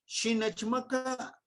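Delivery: slow with a high stressed "shi" on "Shi nechmaka"; firm order, "shi" up front; issuing an order, clear and slow; commanding. Shown as a demonstration. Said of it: "Estoy dando una orden".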